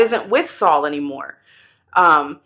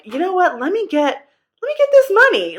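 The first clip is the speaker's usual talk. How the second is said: greedy soldier; 9 semitones higher than usual. Retold or imitated. Greedy soldier's mindset voiced.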